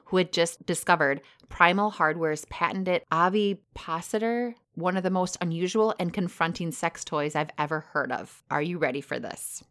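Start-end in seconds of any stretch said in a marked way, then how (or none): 0.1-8.4 reading aloud. Real, not acted. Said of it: "so I'm just gonna read it".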